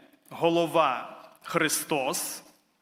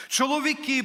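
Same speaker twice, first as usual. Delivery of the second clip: preacher addressing the men, raised call; 7 semitones higher than usual. Acted. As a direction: summon the men from the pulpit.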